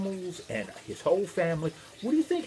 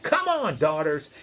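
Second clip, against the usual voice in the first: mildly called out, pitched up; calling out. Acted. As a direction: summon family with a light holler. Noah calls his daughters over.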